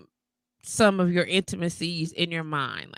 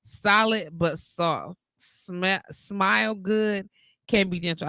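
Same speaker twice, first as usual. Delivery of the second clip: slow reading; slower than usual. Retold or imitated. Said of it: "Vante replies".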